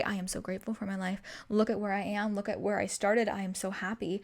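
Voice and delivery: grateful affirmation. Shown as a demonstration. Showing listeners what to say about their life, grateful. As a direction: say it softly to yourself, sincerely.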